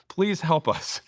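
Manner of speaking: high-pitched mock plea; pleading. Young founders appealing to a seasoned executive, pleading. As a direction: beg for help, pitched well up.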